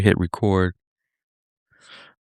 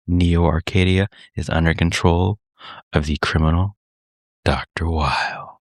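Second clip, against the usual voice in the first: story narration. Acted. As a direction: read it like a game intro. Reads game prologue narration.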